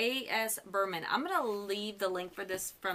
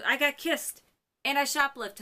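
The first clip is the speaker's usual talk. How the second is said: higher, louder excited rush of news; retold excited blurt; 6 semitones higher, 6 dB louder than usual. Rory telling her best friend, excited and loud. Rory bursting into Lane's house.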